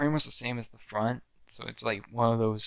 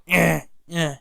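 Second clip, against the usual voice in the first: gloating villain cheer; 6 semitones higher, 6 dB louder than usual. Retold or imitated.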